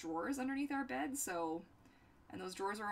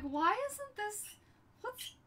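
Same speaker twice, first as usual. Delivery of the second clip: slow, high, whiny mock sob; mock crying; 12 semitones higher, much slower than usual. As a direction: whine it like a fake meltdown. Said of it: "I'm like".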